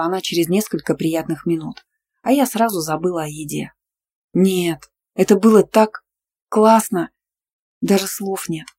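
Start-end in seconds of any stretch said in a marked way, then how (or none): 4.3-8.7 joyful exclamation. A narrator's reading. Lena asked if she regrets it, exclaims with joy. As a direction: gush about the night. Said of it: "с большой радостью воскликнула".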